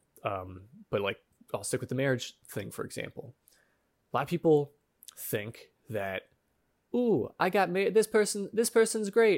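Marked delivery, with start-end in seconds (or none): 7.0-9.4 very high, loud, goofy, self-mocking silly voice. Speaker mocks their own younger thoughts about marriage in a mocking silly voice. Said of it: "I'm using this voice not to make fun of anyone else".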